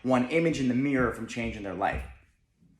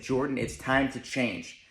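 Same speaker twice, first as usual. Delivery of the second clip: slow self-talk; 4 dB quieter, slower than usual. Retold or imitated. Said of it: "I looked at myself and I said".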